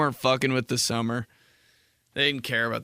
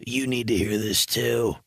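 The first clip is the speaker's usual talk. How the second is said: hushed order; slower than usual. Retold or imitated. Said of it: "I'm like".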